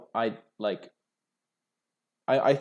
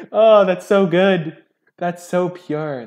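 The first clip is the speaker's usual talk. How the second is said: loud, high, drawn-out delight; real gleeful outburst, stretched out; delighted exclamation; 9 semitones higher, 14 dB louder, much slower than usual. Real, not acted. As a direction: savour it slowly at full voice. Delighted at the lucky streak.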